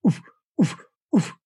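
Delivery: short, huffed "oof"; low-pitch inflection. Shown as a demonstration. Goose caller showing his first note, low-pitched huffs. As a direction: puff out a low cluck syllable. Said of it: "low pitch voice inflection".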